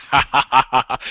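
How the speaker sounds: high, loud mock guffaw; imitated laugh. Imitating Carl laughing at Colville, mocking laughter. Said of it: "He just laughed".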